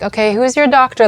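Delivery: nonchalant. Retold or imitated. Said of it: "Like, they're so nonchalant".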